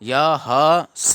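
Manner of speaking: यह ह स slow, three separate full syllables; overfull ह. Shown as a demonstration. Teacher warning about a wrong reading, each syllable separated. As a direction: dwell on ह before स. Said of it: "ह पूरा आ जाएगा".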